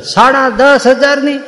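high and slow, dragging out સાડા દસ હજારની; aghast echo. Retold or imitated. Husband repeating the sari price high and slow in dismay.

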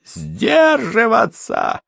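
high, slow scornful yell; mocking shout. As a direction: throw the word back, shouting. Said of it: "прокричал он".

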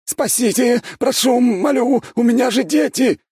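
very high, loud one-note shriek; squealing on one note. A narrator's reading. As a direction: squeal in blind panic. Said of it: "снова завизжал на одной ноте".

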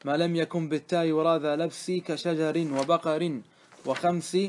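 slow, measured reading of classical Arabic verse; verse recitation. Acted. Teacher reading grammar verse to students, measured recitation. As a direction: recite the didactic verse in steady, drawn-out phrases.

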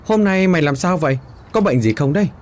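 a touch of concerned surprise; mild surprise. Acted. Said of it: "Quý ngạc nhiên".

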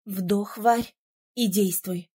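steady her nerves; low coaching voice. A narrator's reading. Prince coaching her calmly. (низко, спокойно)

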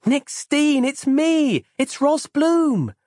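high, loud happy call; beaming while shouting out her name; joyful calling. Acted. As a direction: call out to him, delighted. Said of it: "a smile breaking across her face".

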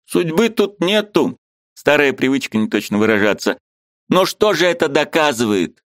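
high, eager voice of a Ukrainian friend; lively high-pitched friend arguing; Mikhalevich's voice. A narrator's reading. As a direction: play the excitable friend up high.

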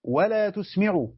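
each word stretched out slowly; slow drawn-out "ولا تسمع", spelling out the reading. Shown as a demonstration. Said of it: "القراءة الأخرى".

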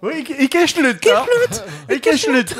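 high, slow squeaky repetition; Pokémon cry voice. Retold or imitated. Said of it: "on dirait presque un bruit de Pokémon". (cri de Pokémon aigu et lent)

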